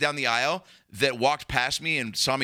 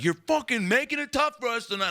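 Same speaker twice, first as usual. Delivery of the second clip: annoyed guard; 11 semitones higher than usual. Retold or imitated. Guard complaining.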